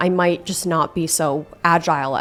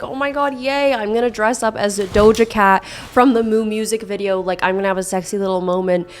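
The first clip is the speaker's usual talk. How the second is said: excited. Retold or imitated. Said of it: "I was like".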